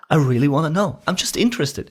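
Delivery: high, genuinely interested; sincerely interested. Shown as a demonstration. Salesman showing real interest to a prospect. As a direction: sound like you just want to know. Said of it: "It's almost".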